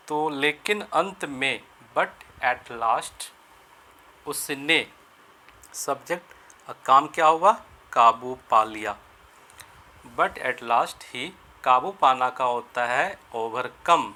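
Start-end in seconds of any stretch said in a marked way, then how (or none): 2.0-3.3 each word spaced out, very slow; slow dictation. Shown as a demonstration. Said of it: "slow dictation for students". 10.2-11.3 each word spaced out, very slow; slow dictation. Shown as a demonstration. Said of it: "slow dictation for students".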